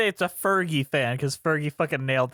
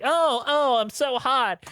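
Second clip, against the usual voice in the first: mock sultry voice; 6 semitones higher, slower than usual. Mocking a sultry singer.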